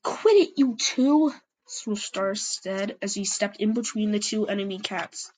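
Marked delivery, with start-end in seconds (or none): 0.0-1.3 high, loud shout to stop the fight; sharp shout. A narrator's reading. Leader shouting at two feuding cats, high and loud. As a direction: cut in loudly to break them up.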